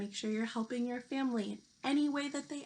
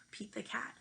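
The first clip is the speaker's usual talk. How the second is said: whisper; 7 dB quieter than usual. Real, not acted. Teacher shares love of book.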